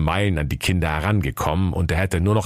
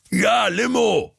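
sheepish; slower than usual. Acted. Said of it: "antwortete der böse Karl-Heinz bedröppelt".

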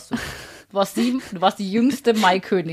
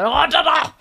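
raised, drawn-out captain's order; imitated shout; 8 semitones higher, 5 dB louder, much slower than usual. Retelling how the captain yelled at them, drawn-out mock shout. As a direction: mimic a captain yelling someone down. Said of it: "ungefähr so geschrien".

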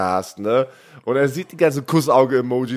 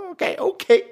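ironisches Okay; 13 semitones higher than usual. Retold or imitated. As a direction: play it dismissively amused. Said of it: "Und ich so". (ironisch hoch gezogenes Okay)

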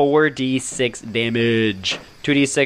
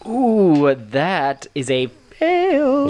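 gleeful gloat; 5 semitones higher, much slower than usual. Real, not acted. GM gloats over failed save.

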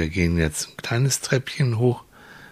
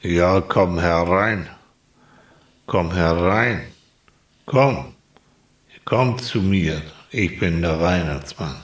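Santa Claus voice. Acted. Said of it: "Und dann kommt eine Stimme".

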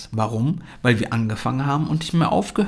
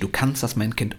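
ermutigender Elternteil; 3 dB quieter than usual. Acted. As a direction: calmly encourage your child. Parent reassures the child. (ruhig ermutigende Elternstimme)

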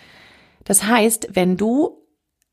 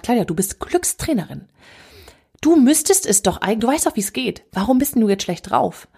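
self-reproach. Retold or imitated. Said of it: "hab ich mich so selber fertig gemacht".

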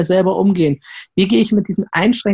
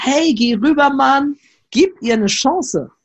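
a singer; 6 semitones higher, slower than usual. Retold or imitated. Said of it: "Und sie sagt".

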